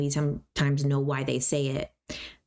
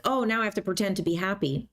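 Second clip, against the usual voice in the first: mock cheerful; 3 semitones higher, faster than usual. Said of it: "they think that you have to be like".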